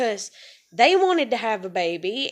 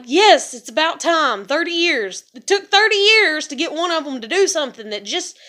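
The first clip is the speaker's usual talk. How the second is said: louder, rising joyful outburst; relieved excitement; 3 semitones higher, 5 dB louder than usual. Retold or imitated. Retelling her joy at grandmother's offer, loud and excited. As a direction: cheer that it's finally happening.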